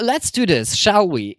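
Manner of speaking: upbeat, inviting suggestion; friendly offer. Shown as a demonstration. Showing chat the friendly offering shall, upbeat. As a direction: suggest it cheerfully. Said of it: "It's more like offering".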